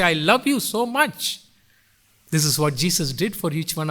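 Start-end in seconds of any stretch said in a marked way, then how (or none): 0.0-1.4 lightly voiced doting parent, pitched up; a touch higher, rising on "so much"; hint of a parent reassuring a child. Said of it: "put their hands like this and they say".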